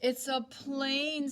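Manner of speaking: slow, loud declaration. Acted. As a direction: announce it slowly and loudly. Boy guessing the noise.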